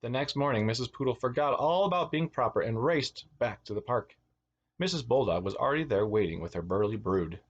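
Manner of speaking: put-on lilting read-aloud for children; animated storyteller; picture-book narration. A narrator's reading. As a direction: read a storybook to little kids, stressing key words.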